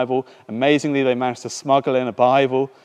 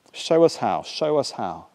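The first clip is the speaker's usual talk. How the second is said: matter-of-fact prayer. Acted. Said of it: "said so matter-of-factly".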